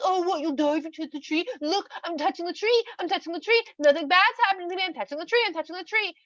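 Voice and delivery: high, mocking sing-song taunt. Snake dares the woman by touching the tree, taunting. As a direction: tease like a playground show-off.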